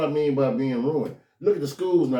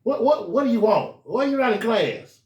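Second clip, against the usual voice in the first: mom demanding; 6 semitones higher than usual. Retold or imitated. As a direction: press the kid for an answer.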